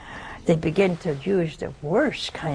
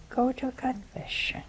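hushed urging; 7 semitones higher, 7 dB quieter than usual. Real, not acted. Urging listeners to confess.

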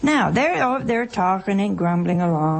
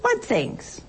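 innocent question; 9 semitones higher than usual. Retold or imitated. Jesus voiced playing innocent.

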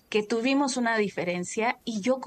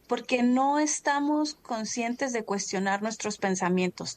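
ordinary delivery

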